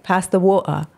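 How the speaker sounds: lightly imitated Cockney, dropping the t in "water"; "water" said the Cockney way, as "waw-uh"; Cockney accent. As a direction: mimic a Cockney schoolmate. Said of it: "this Cockney accent".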